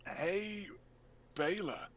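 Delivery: ordinary delivery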